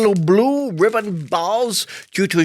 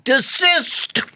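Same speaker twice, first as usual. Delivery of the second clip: usherette telling off; 5 semitones higher, slower than usual. Retold or imitated. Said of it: "usherette will, with the torch, and say".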